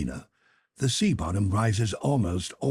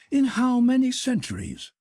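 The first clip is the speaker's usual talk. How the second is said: higher, deferential manservant voice; Conseil the servant; 3 dB louder than usual. Acted. Servant Conseil respectfully objects to his master, in a higher voice. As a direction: play the polite valet objecting gently.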